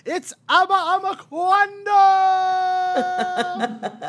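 high, loud, drawn-out hype call; announcer shout. Acted. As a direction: bring the guest on like a game show. Announcing the guest.

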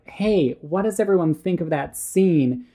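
high, eager pitch to the room; pleading for a fellow fan, voice up high; bright hopeful kid asking around. Retold or imitated. Eager kid seeking movie fans.

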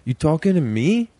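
hammed-up Taxi Driver mirror rant; Robert De Niro impression. Podcast host mocking De Niro's mirror scene, hammed-up. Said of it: "when Robert De Niro in Taxi Driver is like".

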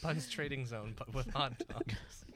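whisper. Real, not acted. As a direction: whisper it like a secret. Whispered joke aside.

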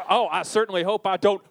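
lightly voiced doomed Western townsman; a hint of a Deadwood victim; doomed Deadwood guy. Host mocking her accent as a doomed Deadwood guy. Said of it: "the voice of a guy who's about to get murdered on Deadwood".

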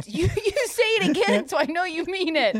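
high-pitched retold dare; mock indignant. Tattler daring friend to repeat it, mock indignant. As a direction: imitate an affronted challenge, voice pushed up high. Retelling own challenge to friend.

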